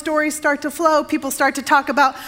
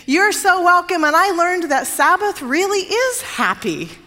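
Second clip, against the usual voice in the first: higher, eager delivery; raised pitch, building to the end; enthusiastic reply; 5 semitones higher than usual. Retold or imitated. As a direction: imitate a delighted visitor's reply. Mayor's warm reply to thanks.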